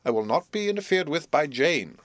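majestic haughtiness. Acted. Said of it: "with a majestic glance".

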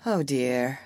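soft weary sigh. Acted. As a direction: sigh it, gently exasperated. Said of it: "sighed Wendy".

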